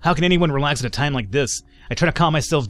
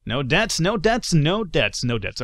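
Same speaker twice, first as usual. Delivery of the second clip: excited; 3 semitones higher, slower than usual. Real, not acted. Celebrating no deaths.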